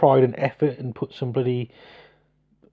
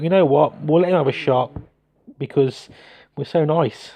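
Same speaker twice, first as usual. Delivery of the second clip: mock defenders' thoughts. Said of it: "but we thought".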